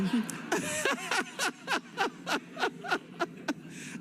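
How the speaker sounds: long high laugh tailing off; big amused laugh at herself; real laugh. Real, not acted. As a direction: laugh it off, caught out by the crowd. Audience banter about California.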